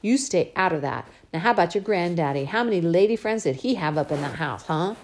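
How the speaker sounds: lightly voiced scolding father; a hint of a gentle but firm dad; father scolding his spoiled little girl, lightly voiced; Daddy's voice. Father teases and lectures.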